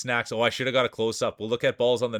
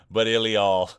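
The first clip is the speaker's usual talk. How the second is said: hyped speech reading; 4 dB louder than usual. Retold or imitated. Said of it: "here's the speech from the one and only".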